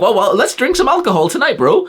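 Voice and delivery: high, sneering parody of a drinking buddy; high, put-on dopey voice; mock lad voice. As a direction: ridicule the party bro. Mocking drinking lads.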